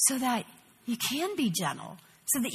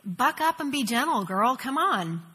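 mock stern god; 3 dB louder than usual. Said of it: "far-off God who says".

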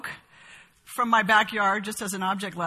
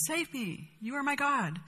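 softer, hushed plea to the idol; softer, devout murmur to a block of wood; hushed prayer; 4 semitones higher, 7 dB quieter than usual. Retold or imitated. Worshipper prays to idol again.

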